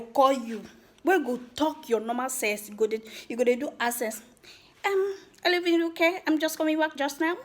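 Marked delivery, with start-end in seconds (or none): 4.9-7.4 high, put-on posh accent with a twisted pidgin; showing off a foreign accent to impress a guy; fake foreign accent. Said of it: "you don twist am because you want to catch that guy".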